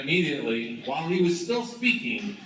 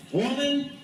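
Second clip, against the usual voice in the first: Peter's sharp denial; 12 semitones higher, 3 dB louder than usual. Acted. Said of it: "he said".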